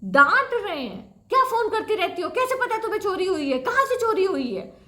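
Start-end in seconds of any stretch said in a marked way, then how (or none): 1.3-4.8 mock rude policeman scolding down the phone; imitating a scolding cop. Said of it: "वो मेरे को डांट रहे हैं फ़ोन पे".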